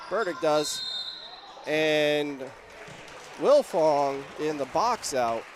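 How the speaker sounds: punchy phrases following the ball; live play-by-play. Real, not acted. Announcer calls Burdick driving baseline, live play-by-play. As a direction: call each move as it happens.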